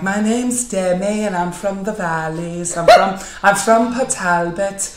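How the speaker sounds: slow, lilting Welsh woman; Welsh woman's accent. Retold or imitated. Imitating a friend from the valleys, slow Welsh accent. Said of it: "a Welsh woman's accent".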